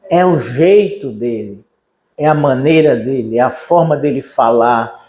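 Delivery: ordinary talk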